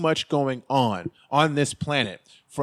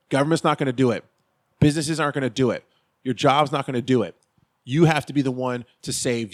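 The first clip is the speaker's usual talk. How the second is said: fired up; 3 dB louder than usual. Real, not acted. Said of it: "little fired up there".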